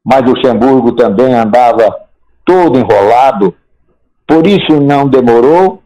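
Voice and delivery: measured folk-poet recital with pauses between phrases; declaimed verse, each line rising then settling; poem recitation. Acted. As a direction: recite it line by line like a homespun rhymed chronicle. Recites his own football poem.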